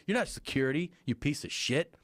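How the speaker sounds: high-pitched mock outrage; retold yelling. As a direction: imitate an irate onlooker's accusation. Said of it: "People were yelling".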